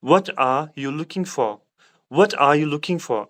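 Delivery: slow British English pronunciation, dropping the r in "for"; British accent. Shown as a demonstration. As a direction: say it the British way, unhurried and careful. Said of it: "British accent में इस तरह इसको हम pronounce करेंगे". (British accent में धीरे-धीरे)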